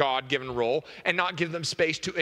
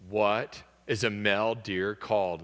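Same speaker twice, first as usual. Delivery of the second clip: husband asking chicken; 7 semitones lower than usual. Acted.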